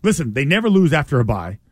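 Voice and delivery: hammed-up panicky fan voice; mock doom-saying fan. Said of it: "Doesn't it feel like, usually it's like".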